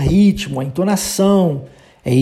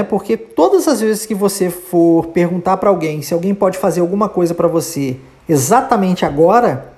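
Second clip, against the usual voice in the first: normal talking voice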